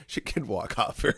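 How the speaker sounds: high, laughing through the words. Real, not acted. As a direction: crack up while talking. Cracks up at own joke.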